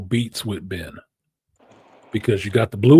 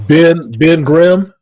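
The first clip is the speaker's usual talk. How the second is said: slow, loud and high hype on Ben Grimm; hyping the name Ben Grimm; hyped emphasis; 6 semitones higher, 9 dB louder, much slower than usual. Real, not acted. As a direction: drag out Ben Grimm with big excitement.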